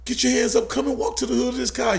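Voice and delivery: high-pitched cop calling out orders; high, insistent police command, not full volume; retold cop yelling. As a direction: imitate a cop calling a kid out. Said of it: "you know, he was yelling".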